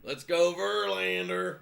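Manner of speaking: drawn-out Texas cheer, Verlander stretched slow; loud, drawling Texas fan cheering his pitcher; Texas accent. Retold or imitated. Mimicking a Houston viewer cheering for Verlander in a Texas accent. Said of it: "that's my impression of you, Windows".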